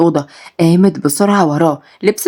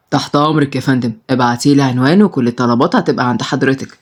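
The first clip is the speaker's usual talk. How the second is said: lower, polite order taker; restaurant clerk; 6 semitones lower than usual. Acted. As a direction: answer like a courteous waiter, low. Restaurant man on phone.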